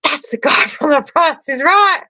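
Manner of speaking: high, starstruck; excited recognition. Retold or imitated. Teen spotting the TV host at a concert, high and giggly. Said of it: "I was like".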